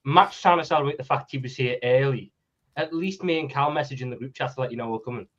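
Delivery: sounding muffled, as if through a wall; muffled mic. Real, not acted. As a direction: voice muffled by a bad laptop mic. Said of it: "you sound like you're muff-, you sound like you're s-, you're speaking through a spot".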